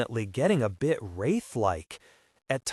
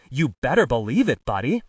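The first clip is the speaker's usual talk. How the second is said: louder film gangster impersonation; Jimmy Cagney impression; 4 dB louder than usual. The speaker showing his colleague the difference, Cagney impression. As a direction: punch it out as a movie-star impression. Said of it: "This is my Jimmy Cagney voice".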